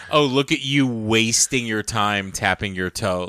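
mock condescension, slow and drawn out; imitated patronizing remark; condescending. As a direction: look down on them, lingering over it. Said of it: "It just felt so condescending".

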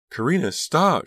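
high, loud desperate plea; urgent high-pitched begging; pleading. A narrator's reading. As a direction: cry out to make her stop. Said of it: "she could hear Miss Fry pleading".

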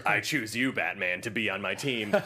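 joking coach's solemn choice; mock talent-show coach. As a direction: pick your team like a TV coach. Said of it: "like he's a coach on The Voice".

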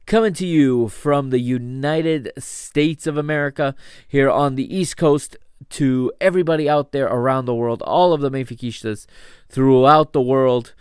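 upbeat radio-host shout-out; podcast host intro. Acted. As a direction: greet the world like a broadcaster.

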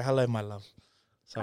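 soft loving phone voice. Real, not acted. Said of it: "answer every phone call like that?".

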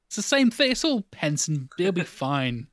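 breezy parents. Retold or imitated. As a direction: brush off the worry like unbothered parents. Parents voiced, dismissing worries.

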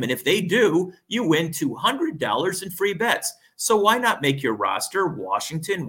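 upbeat sponsor ad read. Acted. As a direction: read it like a radio spot. Reads a sportsbook ad.

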